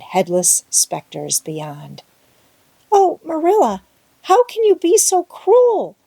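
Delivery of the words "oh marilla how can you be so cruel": put-on much higher and louder, a tearful pleading girl; frightened girl begging her guardian, sobbing; sobbing plea. A narrator's reading. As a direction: beg through tears. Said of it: "sobbed Anne".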